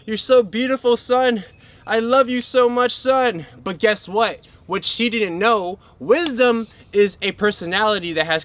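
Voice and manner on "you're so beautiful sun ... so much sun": higher, gushing joy over her creation; joyful goddess. Retold or imitated. Sophia delights in the sun she made, higher and gushing. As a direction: beam with delight at the new sun. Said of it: "Sophia was like".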